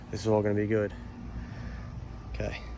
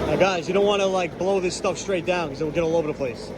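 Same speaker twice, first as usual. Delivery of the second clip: yelling over leaf blower. Real, not acted. Sorry about the blower.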